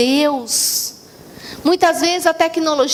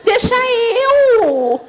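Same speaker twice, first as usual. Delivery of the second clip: laughing; 5 semitones higher than usual. Real, not acted. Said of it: "laughs while voicing whims".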